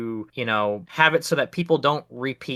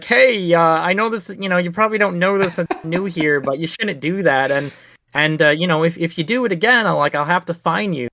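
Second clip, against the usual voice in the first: mildly raised polite telling-off; a gentle, apologetic-sounding warning, pitched up; 4 semitones higher, 3 dB louder than usual. Retold or imitated. One of these guys warning the tree cutter, politely. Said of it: "That is so polite".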